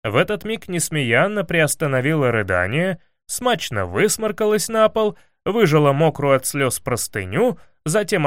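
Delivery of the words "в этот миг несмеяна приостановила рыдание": plain reading voice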